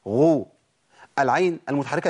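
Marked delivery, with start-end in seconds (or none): 0.1-0.5 "غو" with a rounded u; ghayn with damma. Shown as a demonstration. Teacher demonstrating ghayn with damma for students. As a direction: sound out "غو" as a drill syllable. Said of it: "المتحركة بضم".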